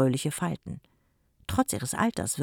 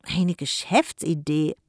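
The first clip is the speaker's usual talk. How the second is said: put-on threatening boy; 3 semitones higher, 5 dB louder than usual. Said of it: "drohte Mikko".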